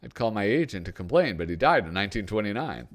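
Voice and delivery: high, loud wisecracking comic voice; a hammed-up Groucho, pitched well up; Groucho Marx. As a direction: toss off every line as a quip. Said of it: "Why, it's me, Groucho Marx".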